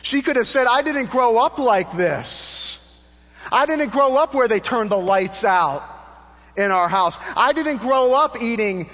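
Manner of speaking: high, loud preacher's cry with long drawn-out words; E V Hill's great voice. Retold or imitated. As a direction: imitate a great preacher crying out, stretching the key words high and slow. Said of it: "in his great voice".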